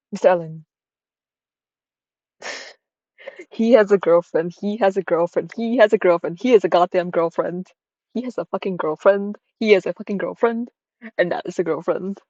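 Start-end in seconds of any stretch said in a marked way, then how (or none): 3.5-12.2 mock furious rant building with swears; half-joking angry repetition. Ranting about girlfriend.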